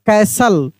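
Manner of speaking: "कैसल" with no T sound; silent T. Shown as a demonstration. Teacher answering the class, "कैसल" with silent T. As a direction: say "कैसल" as "kai-sal", T dropped. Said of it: "टी silent रहेगा".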